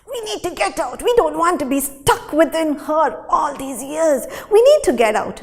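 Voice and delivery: a lightly voiced pleading chorus; lightly voiced trapped voices; trapped story voices. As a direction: push to escape, urgent. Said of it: "they said".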